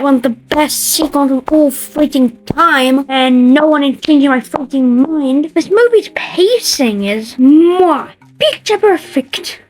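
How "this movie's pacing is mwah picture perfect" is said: 1 mock French accent. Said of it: "why I said it in that accent".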